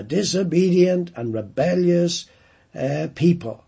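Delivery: a hint of a stern divine judge, building in places; voicing God. Preacher voicing God warning rebellious people, stern and emphatic. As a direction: lay down the law as God, pressing each point. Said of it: "God could have said that".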